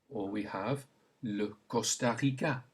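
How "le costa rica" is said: "le Costa Rica" with a French throat r; French pronunciation. Shown as a demonstration. Teacher gives learners a country to repeat, French pronunciation. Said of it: "Say it".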